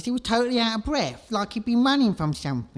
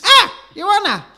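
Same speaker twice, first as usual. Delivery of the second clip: urgent; 8 semitones higher, 11 dB louder than usual. Acted. Sudden remembering.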